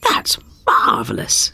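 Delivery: high, slow delighted king; breathless high-pitched joy. Acted. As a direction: gasp it out in royal delight. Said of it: "said the king".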